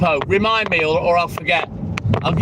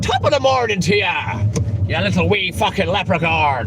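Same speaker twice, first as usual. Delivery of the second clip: bad Irish accent. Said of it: "My accents are terrible".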